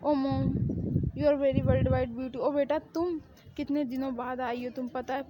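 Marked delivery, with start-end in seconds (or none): 0.0-2.4 very slow, stretched-out sweet talk; over-the-top flattery. Acted. Bride buttering up her mother-in-law, slow and syrupy. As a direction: lay the flattery on thick, word by word.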